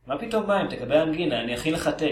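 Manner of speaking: lightly voiced worried Jewish mother; אמא יהודייה דאגנית. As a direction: fuss over the child, lightly acted. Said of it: "ואמא שלו שואלת". (אמא פולנייה מודאגת, במשחק קל)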